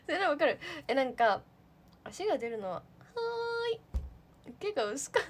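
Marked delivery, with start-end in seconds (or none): 2.7-4.5 high, very slow stretched "hai"; mock drawn-out reply. Teasing a member with a high stretched answer.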